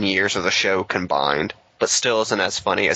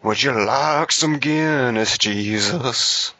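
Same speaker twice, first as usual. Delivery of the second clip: slow, drawn-out imitation of a sappy country crooner; mock country singer; 3 semitones higher, much slower than usual. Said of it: "have to put on the same fucking voice".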